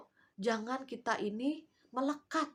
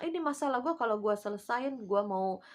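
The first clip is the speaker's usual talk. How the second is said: bargaining believer. Retold or imitated. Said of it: "Dimana kalau bilang".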